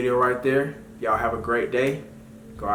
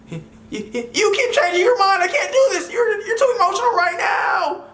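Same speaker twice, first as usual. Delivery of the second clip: stammering mock sob rising to a high shout; hammed-up, squealing hysterics; Myron crying; 5 dB louder than usual. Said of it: "he's really over there crying and throwing a fit".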